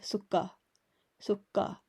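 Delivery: sukka with a held, doubled k; sukka, the k twice as strong; doubled consonant. Shown as a demonstration. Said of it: "make it twice as strong".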